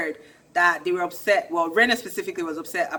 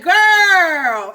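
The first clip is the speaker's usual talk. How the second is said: put-on girl; 10 semitones higher, 10 dB louder than usual. Telling Rena to calm down.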